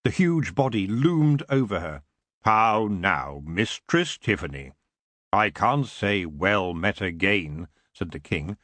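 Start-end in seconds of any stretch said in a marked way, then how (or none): 2.4-4.7 a lightly lowered, lordly king's voice; low and unhurried, a courtly greeting; elf king. Acted. Elf king greeting Tiffany, low and lordly. 5.3-7.7 a lightly lowered, lordly king's voice; low and unhurried, a courtly greeting; elf king. Acted. Elf king greeting Tiffany, low and lordly.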